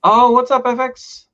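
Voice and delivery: high, loud cheerful hello; excited greeting. Real, not acted. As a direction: greet the viewer brightly. Greeting a chat viewer excitedly.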